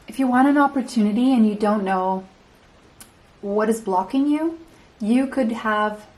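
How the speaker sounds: catching breath between phrases; winded, breathing hard. Real, not acted. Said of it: "I'm still catching my breath".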